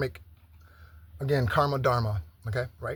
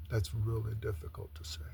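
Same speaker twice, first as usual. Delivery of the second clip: whisper; 3 semitones lower, 7 dB quieter than usual. Real, not acted. Emotional admission about grace.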